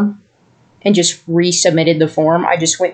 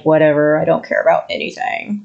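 put-on lower, quiet, indifferent teen mumble; lightly voiced apathetic teenager; angsty teen; 5 semitones lower, 4 dB quieter than usual. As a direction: toss it off like a teen who couldn't care less. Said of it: "angsty teen-ness, like, the teen".

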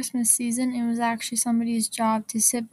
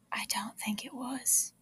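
whispered aside; 11 dB quieter than usual. Real, not acted.

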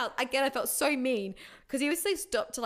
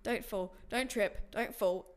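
quiet inner voice; 2 semitones lower, 5 dB quieter, slower than usual. Retold or imitated. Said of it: "in my head thinking".

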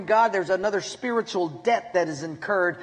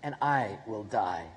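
tender. Pretend. God's words voiced tenderly.

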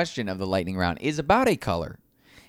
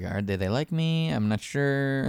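higher, drawn-out "I'm not sure"; mock insecurity; 4 semitones higher than usual. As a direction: play the unsure lover, stretching the end. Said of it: "you're like".

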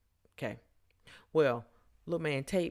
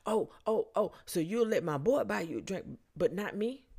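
mildly riled, pitched-up imitation; mock indignation; 5 semitones higher, 3 dB louder than usual. Rejected man challenging woman over a drink, mock-indignant. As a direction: act out his affronted protest. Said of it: "His voice is starting to raise".

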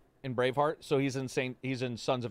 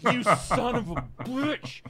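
drawn-out, higher-pitched playful indignation; slow, exaggerated comic accusation; mock outrage; 8 semitones higher, 4 dB louder, slower than usual. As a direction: curse the cheating buddy, half joking. Retelling outrage at cheating friend.

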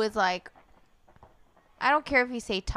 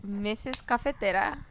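slowed-down announcer voice; radio host voice; 3 semitones higher, 4 dB louder than usual. Real, not acted. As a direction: put on a podcast host voice. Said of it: "Your voice is so sexy".

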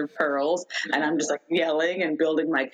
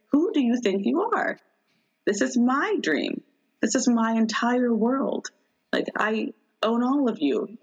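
indignant telling-off; 5 semitones higher than usual. Retold or imitated. Dreamer scolding the townspeople who wrecked her cabin, mock furious retort. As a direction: put them in their place, half-performed outrage. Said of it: "I'm still yelling at them".

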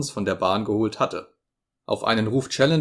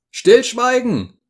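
much higher, loud and slow cry; incredulous shout; 13 semitones higher, 8 dB louder, slower than usual. A narrator's reading. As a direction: shout the word in disbelief. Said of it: "rief Lord John".

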